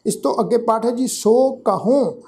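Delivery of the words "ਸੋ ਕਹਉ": ਕਹਉ with a nasalized final ਉ, slowly; nasal tone. Shown as a demonstration. Teacher demonstrates nasal ending of ਕਹਉ. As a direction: let ਕਹਉ fade through the nose. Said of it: "ਇੱਥੇ ਵੀ ਨਾਸਕੀ tone ਚ".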